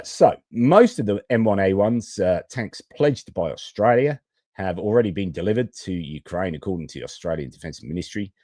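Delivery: lightly put-on Australian newsreading accent; mock Australian accent. Host reading news of Australia's tank delivery, mock Australian accent. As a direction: read it with an Australian twang. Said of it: "it's cultural appropriation time".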